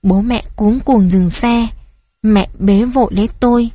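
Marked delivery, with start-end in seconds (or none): none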